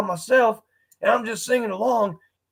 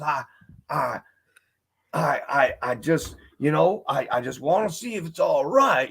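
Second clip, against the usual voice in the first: put-on country accent; 5 semitones lower than usual. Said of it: "like, a country accent".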